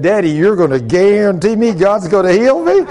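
mildly incredulous, rising question; retold disbelief. Daughter questions her father's promise of healing, mildly incredulous. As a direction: check that he really means it.

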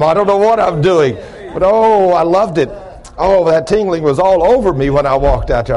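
worked-up preacher, pitched high; excited testifying. Real, not acted. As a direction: testify as if still tingling with it.

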